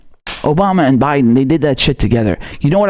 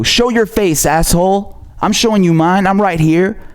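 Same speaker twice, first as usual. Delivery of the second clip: raised, challenging outburst; heated taunt at the critics; real anger; 3 semitones higher than usual. Real, not acted. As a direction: call them out, daring them to show up. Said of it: "Here's the same anger".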